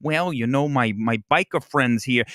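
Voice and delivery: imitating an actress's overdone Midwestern accent; lightly hammed-up Midwestern twang, teasing; mock Midwestern accent. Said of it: "she's doing this accent".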